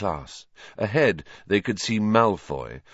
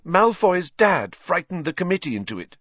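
put-on high-pitched, distressed girl; tearful upset; 10 semitones higher, 4 dB louder than usual. A narrator's reading. Hermione wiping her eyes over the verdict, upset. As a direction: protest on the edge of tears.

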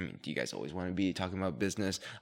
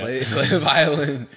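mock dramatic laugh; 7 semitones higher, 12 dB louder, slower than usual. Teasing joke about emotions.

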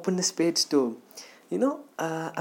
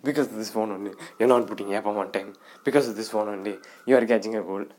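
scolding mom; 5 semitones lower, much faster than usual. Retold or imitated. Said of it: "She'll be like".

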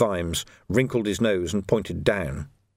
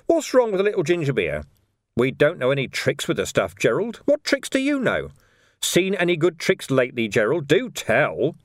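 higher-pitched, mock-innocent questioning; teasing interrogator, questions swooping up; needling copper; 5 semitones higher than usual. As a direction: press him with feigned curiosity. Vimes needles the prisoner.

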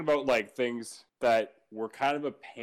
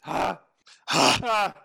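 loud, higher ogre groan of a vocal warm-up; ogre in heat; 6 semitones higher, 6 dB louder than usual. Real, not acted. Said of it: "you sound like an ogre in heat".

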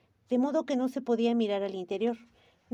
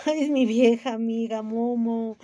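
louder, slow proud introduction; proud and glad; 7 dB louder, slower than usual. Acted. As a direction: show off an old friend. Gigi proud, laughing.

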